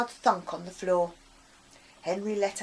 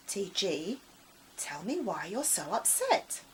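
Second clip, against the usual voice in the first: soft friendly voice; 4 dB quieter than usual. Acted. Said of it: "the voice returned".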